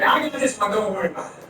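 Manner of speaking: breezy, overconfident reassurance; hammed-up swagger; cocky. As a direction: brush it off like you know cars. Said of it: "I get all cocky".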